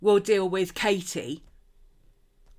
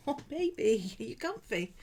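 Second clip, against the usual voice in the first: tender cooing; 4 semitones higher, 5 dB quieter than usual. Real, not acted. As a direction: coo softly, checking on your darling. Cooing to Maddie on her foot.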